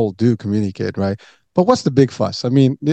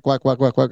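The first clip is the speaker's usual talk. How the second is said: light mock quack quack chatter. People chattering without relating, light mock quacking. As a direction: quack it like an idle talker. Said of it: "you're like".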